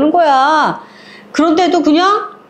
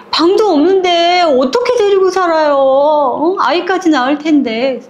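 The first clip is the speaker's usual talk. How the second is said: higher-pitched acted objection; dismayed protest; 5 semitones higher than usual. Daughter-in-law protests to her mother-in-law about housing relatives, dismayed. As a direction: object in a raised, pleading pitch.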